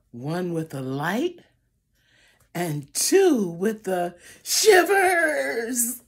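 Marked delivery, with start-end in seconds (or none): 2.5-6.0 slow, quavering shivers; shivery voice. Acted. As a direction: tremble through the words. Bears with the shivers.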